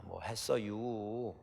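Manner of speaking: drawn-out Chungcheong dialect, very slow; slow Chungcheong drawl. Retold or imitated. 충청도 사투리로 아주 느리게. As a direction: stretch it out like a Chungcheong speaker. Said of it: "충청도 사람들이 이게 말이 느리다".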